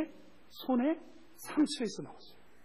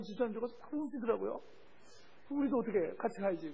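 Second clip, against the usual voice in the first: ordinary talk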